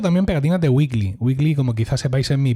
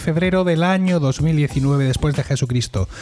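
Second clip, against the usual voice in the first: scripted opening, delivered brightly in full announcer flow; podcast intro; 4 semitones higher than usual. Acted. Host welcomes listeners to the podcast, announcer read. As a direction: read the show's opening with rising pitch on the rhetorical question.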